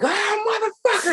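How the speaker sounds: high, sudden yelp of a startled curse; retold freak-out. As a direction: blurt it out like something just crawled off your hand. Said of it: "and I'm flipping out".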